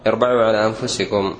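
"اربعوا" with opening i and a after the b; the proper irba'u form of "اربعوا"; correct reading. Shown as a demonstration. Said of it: "لأن الفعل ثلاثي من باب علم".

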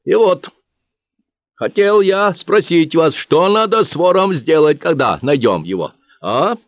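lightly voiced bookkeeper putting it to the crowd.

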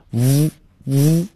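"呜" sounded as a buzzing v, teeth on lip; short held v buzz for "呜", twice; isolated v sound. Shown as a demonstration. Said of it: "是上牙咬着下唇".

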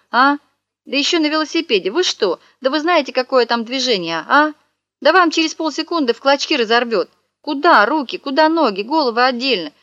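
high, agitated fake outrage; a hammed-up frantic holler; mock yelling. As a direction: bluster at the kids to scare them off. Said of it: "заорал".

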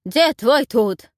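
loud, slow, spelled-out shout; slow shouted reply to a deaf old woman. Acted. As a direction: bellow it slowly at a deaf granny. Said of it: "крикнул громко здоровяк".

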